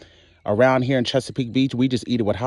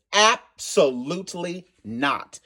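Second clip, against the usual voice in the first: flat refusal; 3 semitones higher, much slower than usual. Real, not acted. Refusing gigantic oysters.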